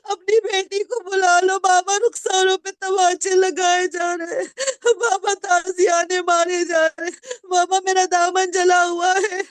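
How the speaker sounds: put-on a little girl calling her father in anguish; child's sobbing cry. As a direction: cry out for Baba through tears. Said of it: "مقتل میں آواز دے رہی ہے".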